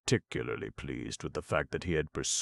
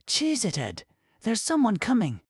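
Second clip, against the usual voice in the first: sharp undertone; 5 dB louder than usual. Acted. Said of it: "She hissed a warning in a sharp undertone".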